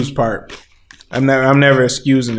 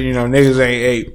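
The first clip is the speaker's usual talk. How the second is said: chewing while talking. Real, not acted. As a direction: mouth full of food. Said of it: "Excuse the chewing and shit".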